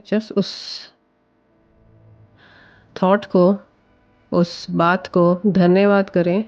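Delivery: calm guided meditation voice with long pauses. Acted. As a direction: guide the listener gently into breathing, pausing between phrases. Leads a guided visualization. (शांत निर्देशित ध्यान की आवाज़)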